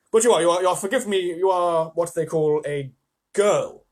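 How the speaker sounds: a hint of a nervous, fussing fawn; flustered fawn. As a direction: fawn voice, only a little changed. Fawn's flustered voice.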